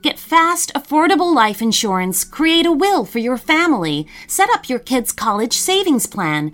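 upbeat sponsor read. Acted. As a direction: sell it like a radio ad. Podcast promo and sponsor ad.

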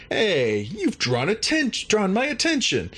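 high-pitched mock challenge from a guard. Guard catches the intruders sneaking, high mock challenge. Guard confronts them in retold scene.

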